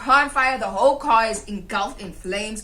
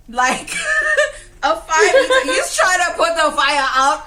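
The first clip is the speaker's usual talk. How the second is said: laughing through the words; 6 semitones higher, 6 dB louder than usual. Real, not acted. Laughing while telling friend about the bucket.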